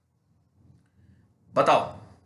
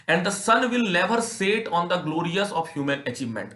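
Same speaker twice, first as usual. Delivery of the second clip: reading the English passage slowly and deliberately; measured classroom read-aloud; slow text reading; 2 semitones higher, much slower than usual. Shown as a demonstration.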